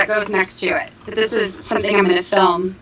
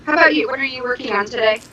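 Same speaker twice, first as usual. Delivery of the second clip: echoey; faster than usual. Real, not acted. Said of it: "they say you sound really echoey".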